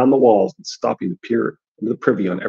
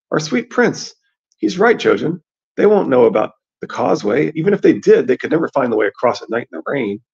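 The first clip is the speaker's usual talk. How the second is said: Meera, reassuring; 3 semitones higher than usual. Acted. Voices Meera in story.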